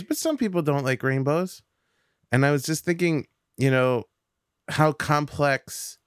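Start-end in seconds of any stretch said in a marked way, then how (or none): 0.0-1.6 put-on little girl voice. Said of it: "She goes".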